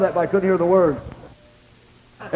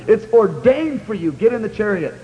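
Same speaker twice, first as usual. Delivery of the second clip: stern retold command; 3 semitones higher than usual. The Lord ordering the preacher into the chariot, stern. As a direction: stretch out the decree, then command.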